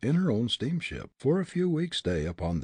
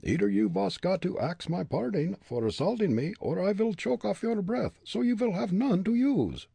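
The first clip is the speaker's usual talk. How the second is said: put-on higher, firm Dutch-accented voice; Dutch accent retort; 10 semitones higher than usual. Fritz refusing the bully, defiant Dutch accent.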